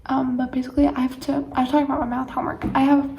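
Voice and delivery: talking while chewing gum. Real, not acted. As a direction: speak around a wad of gum. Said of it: "I'm sorry, I have gum in my mouth".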